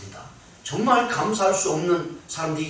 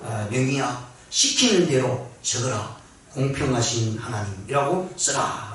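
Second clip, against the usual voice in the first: mild rebuke; 4 semitones lower than usual. Retold or imitated. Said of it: "주님께서 책망하시듯이".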